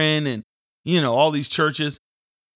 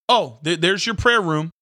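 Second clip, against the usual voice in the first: higher, louder mock salesman voice, fast in the middle; hammed-up excited tour guide; mock realtor; 7 semitones higher, 6 dB louder than usual. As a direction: ham up an eager realtor pitching a room. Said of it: "nobody's like".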